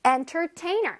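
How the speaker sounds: 엔터테이너 with ENTER stressed; teacher modelling 엔터테이너 stress. Shown as a demonstration. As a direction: punch 엔터 in 엔터테이너. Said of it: "엔터에 강세가 들어가고".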